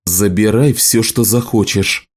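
ordinary delivery, nothing marked

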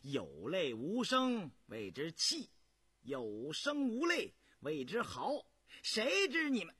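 gloating. Acted. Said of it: "胤祥接口便道".

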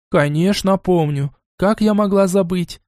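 gentle smiling reply. A narrator's reading. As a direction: smile through the words. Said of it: "с улыбкой". (с улыбкой)

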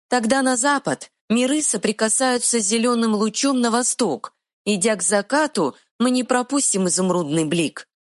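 high, quick fairy voice; tiny fairy retort. Acted. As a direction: snap back like a tiny fairy. Fairy speaks.

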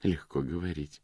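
a hint of mockery, low and soft; mocking. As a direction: lightly scoff. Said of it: "насмешливо произнесла Клэр".

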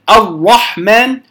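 الرحمن with the ra rolled too long, slowly; over-trilled ra. Shown as a demonstration. Teacher showing the wrong trilled ra, slow. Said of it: "لا أقول الرحمن".

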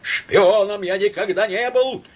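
high, loud quavering yell; trembling shout. Acted. Samoylenko shouting at Laevsky, quavering. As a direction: shout it, leaning on the last word. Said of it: "крикнул он дребезжащим голосом".

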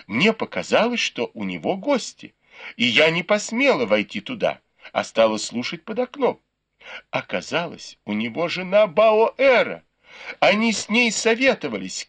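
usual speaking voice

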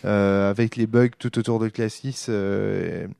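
lisping on every s; talking with a sore tongue, lisping. Real, not acted. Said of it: "j'ai un cheveu sur la langue".

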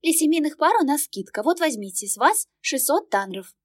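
high, bright-toned ticket clerk; polite service lady at the window; cashier voice. Acted. Cashier offers discount. (вежливая кассирша, высокий голос)

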